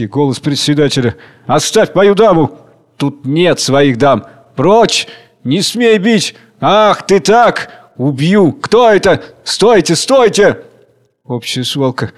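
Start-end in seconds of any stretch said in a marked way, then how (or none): 1.5-10.6 loud, high angry cries; brawling shouts. Acted. Dancers quarrelling over a lady, loud angry cries. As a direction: fight breaking out. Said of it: "вспыхивает ссора, крики".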